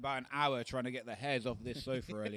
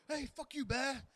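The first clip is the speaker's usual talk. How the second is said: dogs voiced; 11 semitones higher, slower than usual. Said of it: "these dogs were like".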